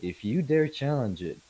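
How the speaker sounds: firm warning to a lord, mildly acted; a hint of a menacing envoy; lightly voiced merchant making threats. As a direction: warn the ruler with a touch of imperial confidence.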